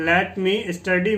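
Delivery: slowly again, lifting on study; slow model reading, rising end. Shown as a demonstration. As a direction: syllabe par syllabe, study qui monte. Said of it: "teacher repeats the phrase".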